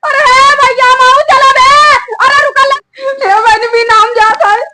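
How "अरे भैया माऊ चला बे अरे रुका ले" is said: higher-pitched urgent call; raised, urgent shout. Acted. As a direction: call out to make them wait. Calling out to stop them.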